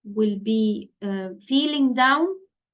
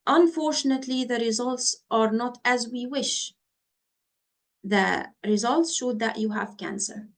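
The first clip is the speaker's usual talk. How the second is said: bad news read upbeat and raised; too upbeat delivery. Shown as a demonstration. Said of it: "Can you see the tone of the voice? ... I'm speaking up".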